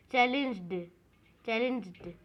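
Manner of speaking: "चैलेंज्ड" closing straight on d; no "id" ending. Shown as a demonstration. Teacher tests the word for the class, "चैलेंज्ड" with no id sound. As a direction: end "चैलेंज्ड" without an extra syllable. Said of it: "आईडी का sound नहीं आ रहा".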